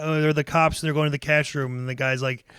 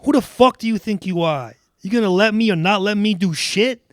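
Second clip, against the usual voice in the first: mildly heated, higher-pitched telling-off; acted angry tirade; 4 semitones higher than usual. Doug telling Jem off in a read scene, acted anger. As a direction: play being fed up, pitch climbing. Acted quarrel from a film script.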